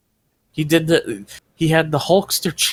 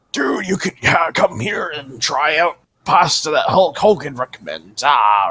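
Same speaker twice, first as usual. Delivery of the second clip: Hulk Hogan impression; 3 semitones higher than usual. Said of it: "it did sound like a pirate".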